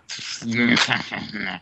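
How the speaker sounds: throaty growl laugh. Acted. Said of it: "is like a throaty growl".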